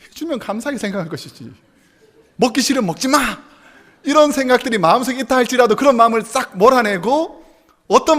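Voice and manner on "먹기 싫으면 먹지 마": snapping back. Acted. Wife snaps back at husband.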